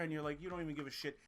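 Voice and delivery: usual speaking voice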